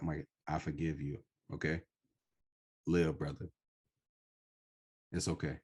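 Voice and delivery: softly reassuring, with long pauses; retold quiet talk to oneself; gentle self-forgiveness. Talking to himself in the mirror, gently forgiving.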